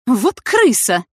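slow hissed insult. A narrator's reading. Галина шипит на Яну, узнав правду. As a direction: spit the word out in contempt. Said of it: "прошипела Галина".

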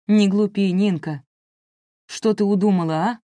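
loud, urgent reproach; alarmed call. A narrator's reading. Mother rushes to the door after daughter, calling out in alarm. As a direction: call out sharply to stop her.

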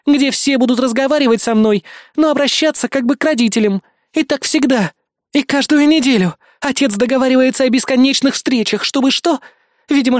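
put-on indignant young heiress venting; upset teen heiress. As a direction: pour out years of resentment. Cassidy's long rant.

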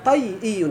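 طيئي slowly, as ṭay-iyyun with one y; demonstrated derived form. Shown as a demonstration. Teacher showing the dropped letter, demonstrated form. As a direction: slowly sound out طيئي, glottal stop before the ending. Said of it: "تحذف ياء وتخلي ياء".

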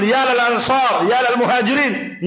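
high, acted rallying call. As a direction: imitate rival groups summoning their people. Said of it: "Ketika mereka memanggil".

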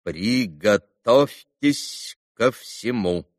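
very slow, every syllable hammered; doctor spelling out the bad news syllable by syllable; stressing every syllable. A narrator's reading. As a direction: clip out each syllable of Приготовьтесь ко всему. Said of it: "ударяя по каждому слогу".

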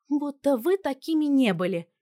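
high, loud bratty snap; snapping teen. A narrator's reading. Daughter snapping back at her parents, high and loud. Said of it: "огрызнулась Анютка".

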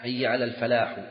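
الفلاح with a voiced final vowel; wrong case ending. Shown as a demonstration. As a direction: sound out a faulty ending on الفلاح. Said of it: "لحن، لكن لا يحيل".

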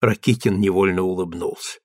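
plain reading voice

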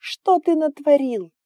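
high loud crying shout; girl crying at the dragon; wailing cry. A narrator's reading. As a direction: wail it through tears. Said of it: "Инга заревела ещё сильнее".

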